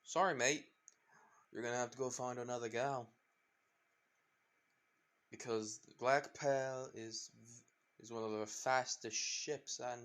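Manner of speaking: lightly voiced pirate captain; a hint of a swaggering pirate; Jack Sparrow voice. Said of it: "the voice says".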